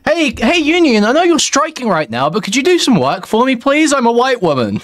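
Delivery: high, sugary begging voice, mocking a white woman asking the union for favors; mock pleading customer. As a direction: plead sweetly and entitled, as a parody.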